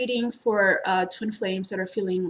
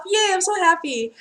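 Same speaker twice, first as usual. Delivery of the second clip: high, louder gushing yay; mock cheer; 9 semitones higher, 3 dB louder than usual. Reader cheers a client's news, high gushing yay. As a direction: cheer it like a delighted friend. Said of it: "Or they come to me and be like".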